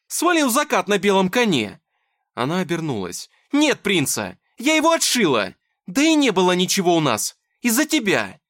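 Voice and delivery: very high, loud outburst; furious yelling. Acted. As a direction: hurl it at him. Dasha shouting in fight.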